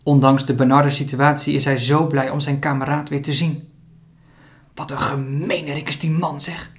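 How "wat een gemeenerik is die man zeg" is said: hissing. Acted. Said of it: "sist Lee".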